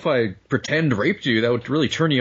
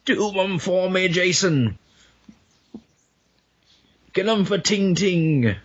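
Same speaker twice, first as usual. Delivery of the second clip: high, drawn-out spooky coaxing; raised, lingering mock-haunting voice; apparition urging Jason; 7 semitones higher than usual. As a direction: call to him like a ghostly parent. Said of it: "instead of Jason's mom, from now on".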